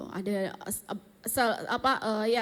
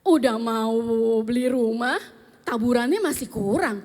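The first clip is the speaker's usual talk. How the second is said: louder, incredulous mock protest; indignant protest; 5 dB louder than usual. Wife retelling her reaction to husband, indignant. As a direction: throw it back in disbelief.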